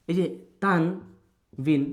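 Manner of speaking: এই যে তানবিন drawn out very slowly, word by word; slow emphasis. Shown as a demonstration. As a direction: stretch এই যে তানবিন slowly so students catch it. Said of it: "একটু মনোযোগ দিই". (এই যে তানবিন খুব ধীরে টেনে বলা)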